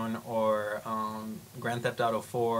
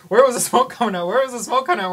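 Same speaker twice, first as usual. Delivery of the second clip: much higher and louder, frantic repeated question; frantic firefighter; 10 semitones higher, 9 dB louder, faster than usual. Retold or imitated. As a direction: bark it out as a panicking fireman. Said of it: "the guy's like".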